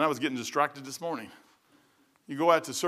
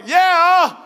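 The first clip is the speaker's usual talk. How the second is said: high, loud, overjoyed yeah; eager yeah; 13 dB louder than usual. Retold or imitated. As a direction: leap at the offer, high and loud. Eager reply to offer of support.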